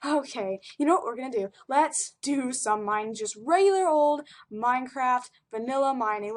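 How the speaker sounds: put-on light British accent. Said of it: "I needed to be British".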